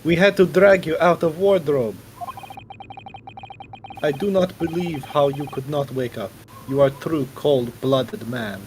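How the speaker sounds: hammed-up fake Russian accent; a bad Russian villain voice, mock menacing; amateur Russian accent, playing a gruff interrogator; shitty Russian accent. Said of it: "try hand at a shitty Russian accent".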